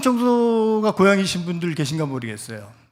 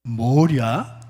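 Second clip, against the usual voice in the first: 뭐랴 with a low Chungcheong tune; a casual Chungcheong dialect answer; Chungcheong reply; 4 semitones lower, 4 dB louder, much slower than usual. Shown as a demonstration. Preacher giving the Chungcheong reply, in dialect. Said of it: "이렇게 얘기하도록 합니다".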